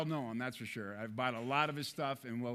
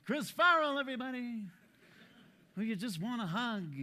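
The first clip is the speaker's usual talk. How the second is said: Chris Farrell impression; 6 semitones higher than usual. Speaker introduces a colleague in a mock high dreamy voice. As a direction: float the words like a gentle soul. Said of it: "But then there's Chris Farrell".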